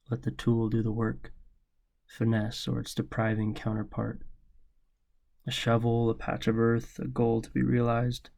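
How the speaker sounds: measured, deliberate spoken-word reading; poem recitation. Acted. Poet reading a poem about father's lesson, measured recitation. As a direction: read it like a poem you wrote for your dad. Reads own poem aloud.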